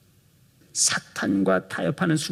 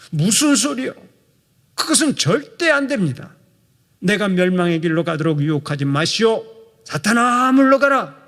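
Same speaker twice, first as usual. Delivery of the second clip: high, loud commanding rebuke; stern rebuke; 3 semitones higher, 4 dB louder than usual. Pretend. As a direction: drive the tempter off with a thunderous rebuke. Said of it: "이렇게 호통을 쳐야 했습니다".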